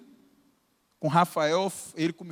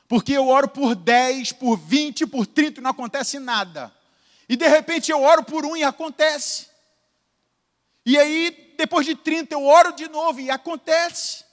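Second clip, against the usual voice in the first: higher, louder preaching build; preaching emphasis; 5 semitones higher, 4 dB louder than usual. Retold or imitated. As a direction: drive it home like a preacher. Quoting pastor, preaching intensity. (pregação enfática, mais alta e mais forte)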